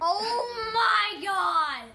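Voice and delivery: loud, high burst of disbelief; excited exclamation. Real, not acted. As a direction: blurt it out in delighted shock. Gets the same toy again.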